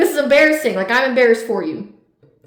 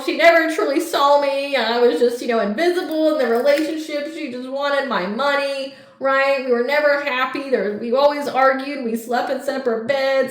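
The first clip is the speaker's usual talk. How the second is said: lightly raised, mock-pitiful quote of the ex; mocking the ex's sob story; 3 semitones higher than usual. Reader mocks the manipulative ex's excuses, mock-pitiful voice. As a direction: parody their self-pity with a little lift. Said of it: "some seventeen-year-old girl that'll believe".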